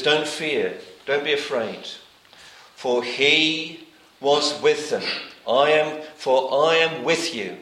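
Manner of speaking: preacher breaks the promise into weighty pieces; each phrase broken up and stressed. Shown as a demonstration. Preacher to his flock, slow and emphatic phrase by phrase. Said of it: "kind of break those up and emphasize each one".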